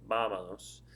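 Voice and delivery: "vámonos" with the weight on its first syllable; stress on third-last syllable. Shown as a demonstration. Teacher illustrating the accent rule, "vámonos" stressed on the first syllable. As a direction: stress the opening of "vámonos", let the rest fall away. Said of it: "that's the third one back from the end".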